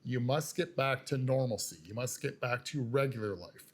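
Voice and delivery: leaning on "back to" in both lines; "back to" given firm, deliberate weight; stress on back to. Shown as a demonstration. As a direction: press down on "back to" each time. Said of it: "I really want to stress the words back to".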